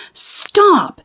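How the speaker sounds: high, sharp stop without much volume; yelled stop. Acted. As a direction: call it out over the rolling boy. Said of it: "yelled Missus Gomez".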